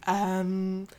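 slow, quiet, offended excuse me; affronted excuse me. Retold or imitated. Retelling the heroine's reply to the publisher, slow and affronted. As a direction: let the disbelief stretch out. Heroine reacts to editor's notes.

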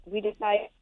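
phone signal breaking up; call dropping out. Real, not acted. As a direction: voice cutting out on a bad line. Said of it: "you cut out there for a second".

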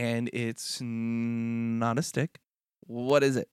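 put-on drawn-out, teasing child's guessing game; little kid. Kid hiding a surprise from parents, coy and drawn-out. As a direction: play a kid stretching out the hints. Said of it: "when I was a kid".

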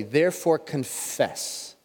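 each word drawn out slowly; slow reading. Shown as a demonstration. Pastor breaks the verse up for the congregation, slowly. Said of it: "I'm gonna break these words up slowly".

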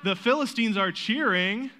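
rally the kids playing Philistines to cheer; prompting the kids to cheer. Shown as a demonstration. To the kids playing Philistines, an excited cheer cue. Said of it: "you're going to kinda react".

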